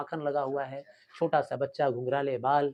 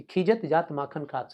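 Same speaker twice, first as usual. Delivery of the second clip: verse recitation. Shown as a demonstration. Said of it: "ऐसा देखा गया कि".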